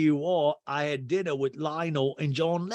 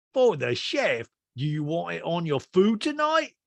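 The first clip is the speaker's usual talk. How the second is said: raised-pitch impression of a questioning host; 5 semitones higher than usual. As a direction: imitate a man querying the gift. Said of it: "And P K goes".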